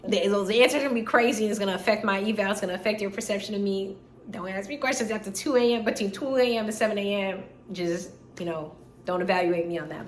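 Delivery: laughing plea. Retold or imitated. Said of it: "I was like".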